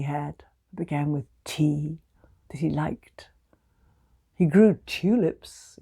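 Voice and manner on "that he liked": whisper. A narrator's reading. Whispered aside to listener.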